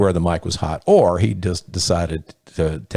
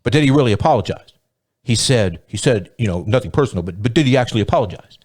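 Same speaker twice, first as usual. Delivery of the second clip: pressing interviewer; 4 semitones higher, faster than usual. Retold or imitated. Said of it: "Hannity kept pressing".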